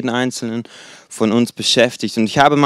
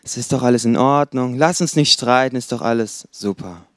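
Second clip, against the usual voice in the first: mock soothing. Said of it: "ich lächle sie an und sagt".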